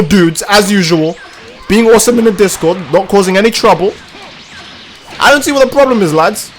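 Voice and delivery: smug boast. Real, not acted. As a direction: play the innocent, a bit pleased with himself.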